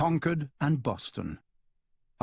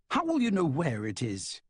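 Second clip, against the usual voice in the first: mild disbelief; 3 semitones higher than usual. Acted. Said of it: "in a state of mild disbelief".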